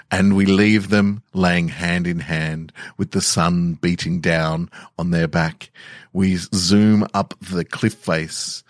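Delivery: slow, measured narration; story narration. A narrator's reading. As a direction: paint the scene slowly for the players. Narrating the scene.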